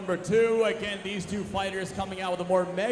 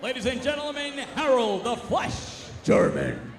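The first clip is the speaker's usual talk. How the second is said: ring announcer; 3 semitones higher than usual. Real, not acted. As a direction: stretch the name out for the crowd. Ring announcer introduces fighter.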